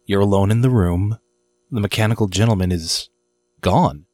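unhurried scene-setting with long pauses; game master narration. Acted. Game master describing the empty room, paced for suspense.

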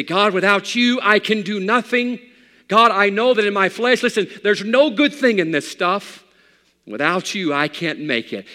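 loud, high pleading cry to God; pleading prayer. Acted. Preacher voices a sinner's prayer.

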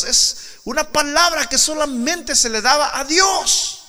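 loud, high, ringing proclamation; full-force preaching. Acted. Preacher proclaiming Jesus's words to the congregation, loud. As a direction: thunder it out to the church.

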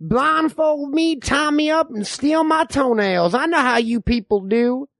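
lightly voiced distrustful old-timer; folksy backwoods codger spinning tales; old man. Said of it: "I'm the old man".

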